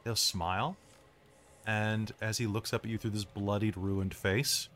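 low, measured, ominous scene-setting; game master narration. A narrator's reading. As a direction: build dread quietly, pausing between phrases.

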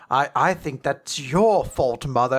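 slow, measured formal tone; Hikaru. Acted. Daughter on the phone to her mother, stiffly formal. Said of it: "shifts into a more, like, formal tone".

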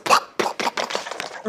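unvoiced popping plops, dying away; imitated falling clots. Recounting clots dropping on the shower floor, imitated plops. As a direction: pop out a string of dull plop noises. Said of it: "e aquilo fazia assim".

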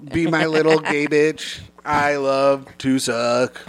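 slow, stiff robot talk; drawn out like a machine; lightly voiced robot. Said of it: "robot top".

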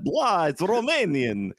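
high, drawn-out vampire blah; Count Dracula. Acted. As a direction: ham up a Romanian vampire accent. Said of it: "turned into Count Dracula there".

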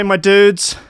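high sing-song my dudes, a hammed-up meme call; meme catchphrase voice. Streamer greeting chat in meme catchphrase voice. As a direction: toss out "dudes" like the famous meme clip.

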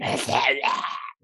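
rasping growly hiss; voiceless creature snarl; monster hiss. Acted. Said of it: "is growling out, hissing".

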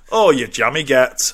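northern English accent with amusement. Shown as a demonstration. Host models a comeback for dinner with friends, northern English accent. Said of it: "in that accent".

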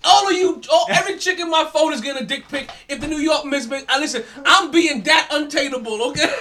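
loud, laughing boast among friends; hyped-up laughing holler; excited shout. Real, not acted. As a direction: yell the promise like a bold bet. Boasting bet on the Knicks.

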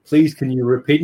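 flat synthetic speech voice; robot voice. Retold or imitated. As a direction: sound like a computer voice. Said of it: "Stephen Hawkins type character".

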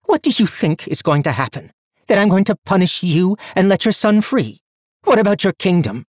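high, loud furious tirade; wild rage. A narrator's reading. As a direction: rage at him, breathless. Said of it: "Her breathing was wild".

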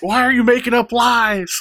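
hammed-up indignant mother; mock scolding mom. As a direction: scold a lying child. Voicing mom scolding the son.

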